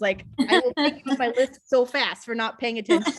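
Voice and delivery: high and loud, scolding. Real, not acted. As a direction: rescue coordinator warning adopters on Zoom, stern and loud. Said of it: "scolding the adopters".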